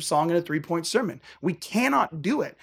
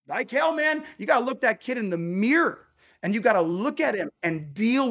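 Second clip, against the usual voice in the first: higher and emphatic, near a shout; forceful rebuttal; 4 semitones higher than usual. Real, not acted. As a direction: push back hard. Preacher rejects the easy answer.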